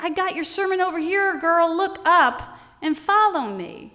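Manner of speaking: sassy nudge, slowing down at the end; Holy Spirit. Retold or imitated. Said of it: "the Holy Spirit was like".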